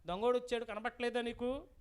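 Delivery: mild acted shout; mock yell. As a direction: call out a scolding warning to a lazy partner. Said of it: "అది అరుస్తుంది".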